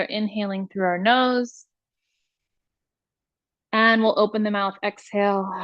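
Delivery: measured meditation voice, long pauses between instructions; guided meditation. Acted. Teacher leading listeners through iRest practice, guided meditation voice.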